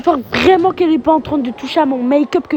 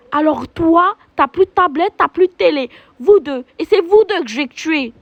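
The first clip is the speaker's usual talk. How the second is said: put-on firmly scolding the kids; stern mother. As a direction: lay down the punishment.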